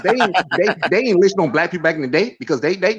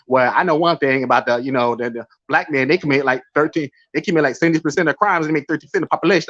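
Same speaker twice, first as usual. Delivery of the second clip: Anthony Brian Logan's way of talking; 2 semitones lower than usual. Retold or imitated. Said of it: "That's how he talks".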